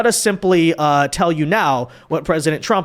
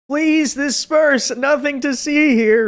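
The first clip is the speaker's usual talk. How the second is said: slow, high mock police bullhorn call; through a megaphone; 7 semitones higher, slower than usual. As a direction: imitate a police megaphone order. Host repeats the clip.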